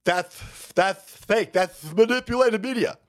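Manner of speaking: lightly hammed-up frantic protest; mock frantic denial. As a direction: imitate someone scrambling to deny it. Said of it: "they're frantically trying to tell".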